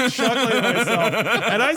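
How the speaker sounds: chuckling through the words; laughing. Real, not acted. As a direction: laugh while you tell it. Laughing while telling.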